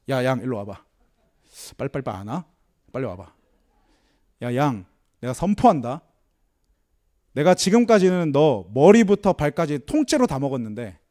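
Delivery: a self-satisfied lion proclaiming its mercy; pompous lion. Retold or imitated. Lion to the sheep, a low bossy proclamation.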